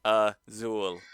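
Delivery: stiff robotic Azul said as ah-ZOOL; robotic American. Pretend. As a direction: Azul in a flat machine voice, ah-ZOOL. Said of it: "say it as American and robotic as I could".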